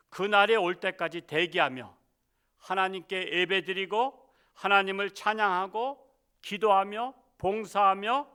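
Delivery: ordinary talk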